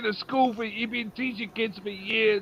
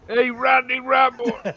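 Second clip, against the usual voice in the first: mock taunt; 4 semitones higher, 4 dB louder, slower than usual. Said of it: "everybody called him Randy".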